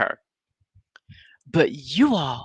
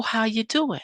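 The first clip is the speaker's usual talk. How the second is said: quiet, peaceful hello; peaceful greeting; 6 semitones higher, 3 dB quieter than usual. Retold or imitated. Martell opening the talk with Mel, peaceful and soft. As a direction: keep it mild and soothing. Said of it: "it's a peaceful".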